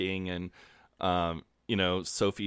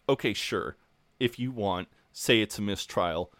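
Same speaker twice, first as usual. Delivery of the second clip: over-the-top monologue. Retold or imitated. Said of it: "Robert Webb plays it so well. He's completely over the top".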